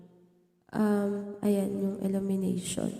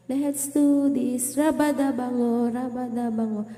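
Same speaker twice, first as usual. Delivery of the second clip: karaoke echo. Shown as a demonstration. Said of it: "ito yung karaoke".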